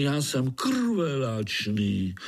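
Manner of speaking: slow, sinister relish; bloodthirsty mosquito; menacing. Acted. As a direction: savour the threat.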